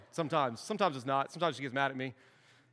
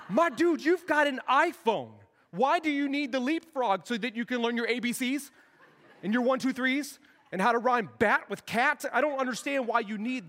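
exasperated; 5 semitones higher, 3 dB louder than usual. Retold or imitated. Exasperated dad addressing his son.

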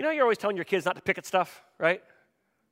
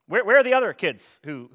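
raised voice, acted exasperation; indignant parent; 4 semitones higher, 8 dB louder than usual. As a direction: demand to know where the ungrateful kids are. Acted parent demanding thanks.

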